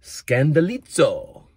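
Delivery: Scandalizo said slowly, Greek style; Greek word. Shown as a demonstration. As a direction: sound out Scandalizo syllable by syllable. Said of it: "It's the Greek word".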